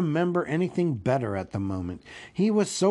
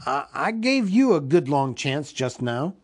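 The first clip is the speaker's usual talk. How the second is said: louder, stammering hobbit; shivering protest; 4 dB louder than usual. Acted. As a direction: protest nervously, tripping on the first word.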